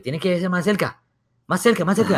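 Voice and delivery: Spanish urging. Retold or imitated. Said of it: "the guy's like".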